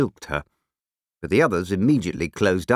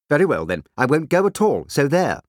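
higher, petulant snap; waspish snap; 6 semitones higher, 4 dB louder than usual. A narrator's reading. Waspish woman to the man with her, snapping. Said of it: "snapped out at a man".

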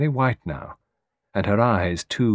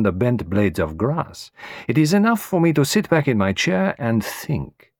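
placid Poirot; 3 semitones higher than usual. Acted.

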